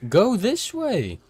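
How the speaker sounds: loud, high, exasperated yelling. Real, not acted. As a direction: shout at them in disbelief. Yelling at the other player.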